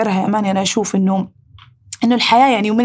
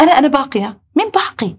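tearful inner voice; 4 semitones higher than usual. Retold or imitated. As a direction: voice breaking, rising high on the question. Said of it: "أقول". (صوت باكٍ يرتفع عاليًا عند السؤال)

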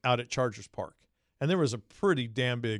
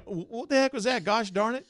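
much higher, wholesome mock exasperation; mock Rivers; 10 semitones higher than usual. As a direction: play the clean-cut QB flustered. Imitating Rivers' reaction.

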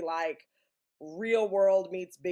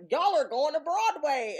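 excited announcement; 8 semitones higher, 5 dB louder than usual. Retold or imitated. Producer announcing, quoted.

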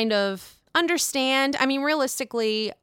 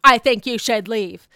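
a touch louder, curt mock dismissal; mock cold Luann; 7 dB louder than usual. Vlogger imitating Luann telling Ebony to leave, curt. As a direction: deliver it like a cold brush-off. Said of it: "the way that she said it".

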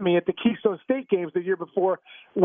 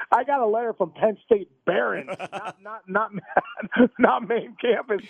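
laughing while retelling; 3 semitones higher, slower than usual. Retold or imitated. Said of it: "I said".

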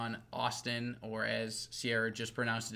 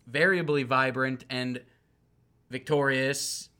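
slow, drawn-out hype intro building louder; hype introduction; 8 dB louder, slower than usual. Pretend. Host introducing his co-host Sierra Speck, building announcer hype. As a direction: stretch it out like an announcer, swelling on the name.

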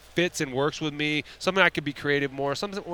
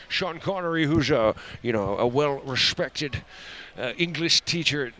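Sean Connery. Acted. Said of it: "that's your accent".

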